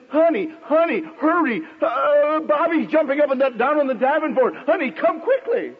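mock alarm, calling her in to deal with it; excited call. Father calls his wife about the jumping boy, mock excited. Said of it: "called excitedly to his wife".

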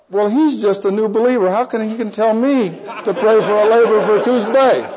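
mock-indignant, rising in pitch. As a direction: bristle at being told what to do. Acted indignant thought about new believer.

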